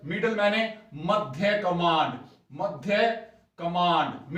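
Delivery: मध्य कमांड stretched slowly, मध्य stressed; slow drilled term. Shown as a demonstration. Teacher repeats the term slowly for students, मध्य stressed. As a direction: spell out मध्य कमांड for the class. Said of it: "middle कमांड में कौन कौन है".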